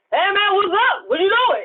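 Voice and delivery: high, loud put-on African American street voice. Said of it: "You bring out your African American voice".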